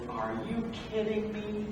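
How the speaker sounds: can't believe what he's asked; hushed disbelief. Acted. Moses to the voice in the bush, hushed and stunned.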